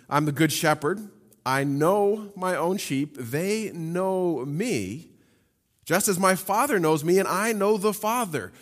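slow, drawn-out reading of the shepherd verse; slow stressed reread. Shown as a demonstration. Pastor savoring the intimacy in the verse for listeners. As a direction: linger on know and they. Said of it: "We see this in John fourteen".

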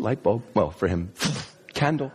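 normal talking voice

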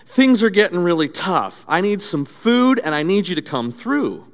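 put-on high old lady voice calling then asking God for food; old lady pleading. Old lady on porch pleads with God for food, high voice. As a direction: sing out the praise then plead gently. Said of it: "she says".

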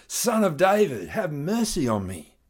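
high, loud cry of Son of David; desperate shout. A narrator's reading. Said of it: "he shouted all the more".

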